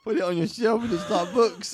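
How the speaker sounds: high Italian auntie voice through laughter; Italian accent. Acted. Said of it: "that is the best impression".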